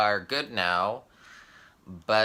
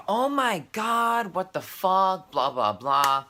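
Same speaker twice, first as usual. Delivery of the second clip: high, drawn-out mock freak-out; outraged friend; 7 semitones higher, slower than usual. Friend phones the teller after the text, mock-outraged. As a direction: imitate her exasperated wail, trailing into blahs.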